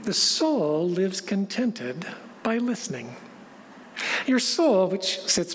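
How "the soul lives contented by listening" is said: poem recitation. Acted.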